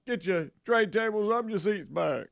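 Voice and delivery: Charles Barkley voice. Acted. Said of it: "Charles Barkley as a flight attendant".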